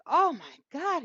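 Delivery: high, loud smitten exclamation; retold swoon. Girl first sees the handsome driver, retold excited swoon. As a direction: act struck by how good he looks.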